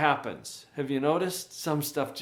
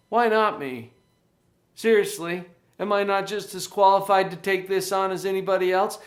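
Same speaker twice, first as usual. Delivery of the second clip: higher, louder upbeat "Why not me?"; confident agent; 4 semitones higher, 4 dB louder than usual. Shown as a demonstration. Coach shows the empowered agent's upbeat question. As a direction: say it eagerly, ready to take it on. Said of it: "On the agent side".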